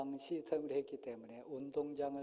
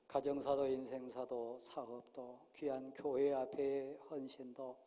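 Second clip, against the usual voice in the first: earnest, steady pastoral prayer, a bit louder; 3 dB louder than usual. Acted. Pastor blessing the couple before the congregation, solemn prayer. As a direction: pray over them with solemn conviction.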